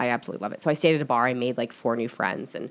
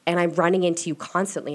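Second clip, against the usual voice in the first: higher, exasperated disbelief; running into her ex again, higher and incredulous; incredulous quote; 4 semitones higher, 3 dB louder than usual. Retold or imitated. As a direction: throw it up like you can't believe it. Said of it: "And I was like".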